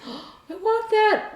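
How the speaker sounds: gasping, high-pitched mock craving; high, stretched "I want that!" reaction; retold eager longing. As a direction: act out an instant must-have, drawn out. Retells her covetous reaction.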